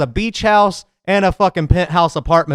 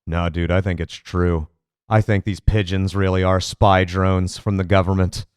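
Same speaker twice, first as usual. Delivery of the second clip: dumb believer voice; 8 semitones lower than usual. Retold or imitated. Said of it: "having people go".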